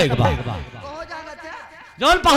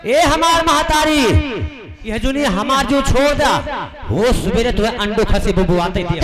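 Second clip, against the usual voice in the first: mock prayer.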